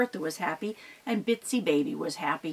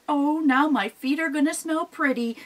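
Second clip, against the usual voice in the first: disgusted troll; 6 semitones higher than usual. Acted. Mama Troll grumbling after her bath. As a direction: groan about being clean. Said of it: "and went".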